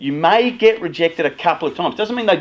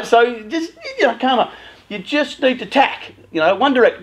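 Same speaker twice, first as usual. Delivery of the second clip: ordinary delivery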